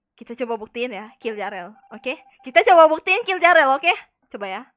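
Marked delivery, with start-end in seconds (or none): 2.4-3.9 loud. Real, not acted. Loud proposal to group.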